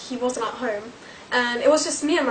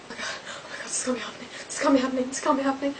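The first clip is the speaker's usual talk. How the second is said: panicked whisper; 6 dB quieter, much faster than usual. Retold or imitated. Panicking at a knock at night.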